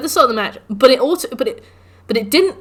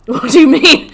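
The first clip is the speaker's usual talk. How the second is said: loud, higher outraged repeat; angry disbelief; 5 semitones higher, 11 dB louder than usual. Retold or imitated. Gamer shouting at the game for killing him. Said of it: "I was so angry".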